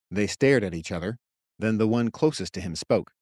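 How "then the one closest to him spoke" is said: ordinary delivery, nothing marked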